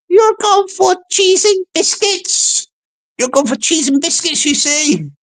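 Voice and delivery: high-pitched English lady, querying; Missus John O'Groats. Acted. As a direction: echo it back high, in mock disbelief. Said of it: "She don't sound Scottish from John O'Groats".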